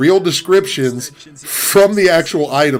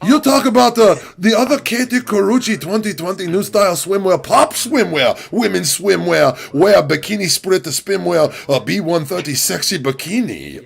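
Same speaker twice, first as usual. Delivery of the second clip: AliExpress operator in broken English; 5 semitones higher than usual. Retold or imitated. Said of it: "my impression of the operator".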